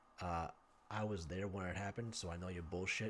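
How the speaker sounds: deep, very quiet, barely audible low murmur. Telling a story of a man leaning in to someone as he walks past, imitating someone speaking very quietly. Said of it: "he says very quietly".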